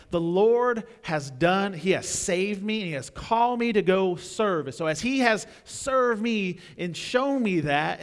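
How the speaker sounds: loud, high, slow fervent declaration; fervent vow. Acted. Preached obedient voice, building.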